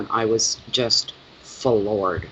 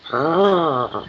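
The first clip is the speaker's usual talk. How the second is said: mock puppy growl; 3 semitones higher than usual. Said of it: "And he growls".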